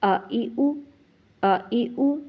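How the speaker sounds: آ ای او each cut short and quick; short correct vowels. Shown as a demonstration. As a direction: say آ ای او crisply, stop the tongue at once. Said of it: "ہم نے پڑھنا ہے". (آ ای او مختصر اور درست)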